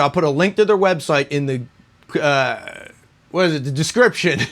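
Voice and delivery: winded after a run; breathing hard between words. Real, not acted. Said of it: "I'm a little out of breath here".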